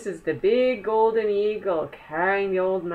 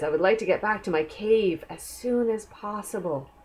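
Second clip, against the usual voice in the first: lightly attempted Scottish accent. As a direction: read it with a not-so-great Scottish accent. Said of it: "my Scottish accent isn't that great".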